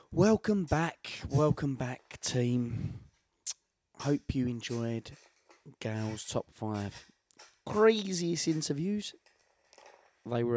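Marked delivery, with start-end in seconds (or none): 0.1-9.1 host outro. Acted. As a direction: greet the audience like a show host.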